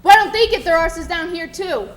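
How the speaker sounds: loud, rising furious tirade; angry rant. Acted. Jenkins to Billy about the lords, furious rising rant. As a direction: build from bitter to roaring rage.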